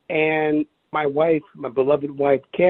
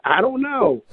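retold bafflement; 7 semitones higher than usual. Baffled answer to friend, retold.

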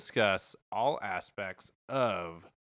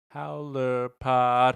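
slow, loud, higher title announce; announcer voice; 4 semitones higher, 8 dB louder, much slower than usual. Acted. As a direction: stretch it out like a ring announcer. Show title drop announcement.

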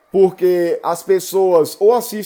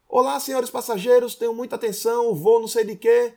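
airport announcement; 4 semitones higher than usual. Retold or imitated. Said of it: "imitação de avisos de aeroportos".

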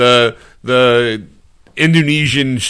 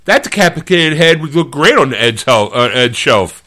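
mock excited friend; 5 semitones higher, 3 dB louder than usual. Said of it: "he goes, walks by and goes".

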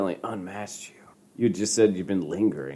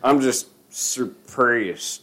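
slow dramatic read; 2 semitones higher, much slower than usual. Pretend. Dramatic reading of message.

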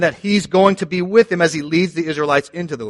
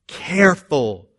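mock misquote. Shown as a demonstration. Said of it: "as long as you get most of the law right".

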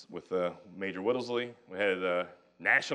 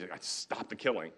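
softer, slow and steady resolve; calm, not rage; 4 semitones lower, 8 dB quieter than usual. Retold or imitated. York resolving to end the killing, softer, slow and without rage. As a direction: say it quietly, without anger, slow. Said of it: "It's not rage".

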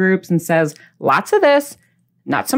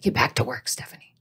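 1 whispered viewer; 6 semitones lower, 9 dB quieter than usual. Retold or imitated. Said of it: "You're like".

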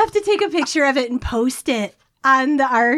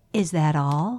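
put-on bratty child; 8 semitones lower, 4 dB quieter, slower than usual. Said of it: "and saying".

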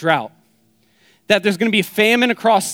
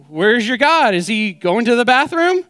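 cocky taunt; 5 semitones higher than usual. Retold or imitated. Elijah taunting the prophets of Baal, cocky and mocking. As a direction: needle them like a smug prophet. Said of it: "Elijah's just kind of a cocky dude".

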